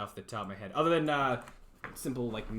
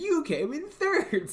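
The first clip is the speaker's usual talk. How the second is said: slow, higher and sneering; condescending; 13 semitones higher, 4 dB louder, slower than usual. Shown as a demonstration. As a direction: talk down to the kid, drawn out. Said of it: "sounds so, like, condescending".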